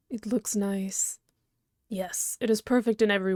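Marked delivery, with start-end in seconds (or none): 0.1-1.2 whisper. Real, not acted. Quiet remark on arrival.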